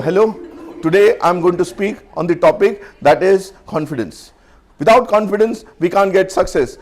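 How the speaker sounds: slow, stiff stage-fright speech; stiff nervous speech. Shown as a demonstration. Trainer acts out a nervous speaker, slow and stiff. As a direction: recite it woodenly like a scared beginner.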